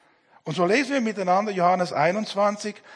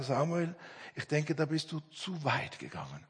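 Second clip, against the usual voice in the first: soft imitated friend's caution; retold quiet concern; gentle admonition; 5 semitones lower, 12 dB quieter than usual. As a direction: correct a friend kindly, keeping it low and quiet.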